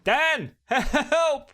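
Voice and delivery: whimpering. Acted. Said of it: "Whimpered Tim".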